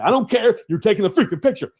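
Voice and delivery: retold exasperated order; exasperated dad. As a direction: overrule the kid, fed up. Acted dad overruling the complaining kid.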